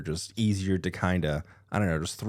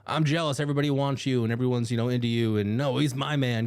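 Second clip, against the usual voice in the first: put-on jealous girlfriend voice; 4 semitones higher than usual. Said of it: "a crazy jealousy thing".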